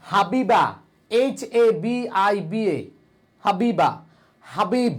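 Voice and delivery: "হাবিবা" with an audible initial h; teacher's example of h in "হাবিবা"; sounded H. Shown as a demonstration. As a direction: say "হাবিবা" starting on a breathed h. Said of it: "এইচ এর উচ্চারণ কি?".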